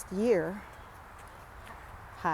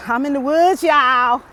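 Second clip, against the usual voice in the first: loud, higher call to the viewers; excited shout; 5 semitones higher, 10 dB louder than usual. Real, not acted. Hiker calling out to viewers that she's in the woods, loud and excited. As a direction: announce it to everyone.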